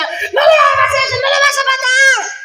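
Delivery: preacher voicing a woman begging the men not to kill; imitating a pleading woman. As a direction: play the woman screaming to stop the fight. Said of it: "y la mujer decía".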